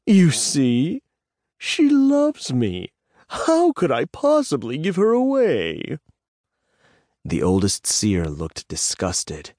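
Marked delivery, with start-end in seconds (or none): 0.1-6.0 doting gush. Acted. Bob gushing over his dragon.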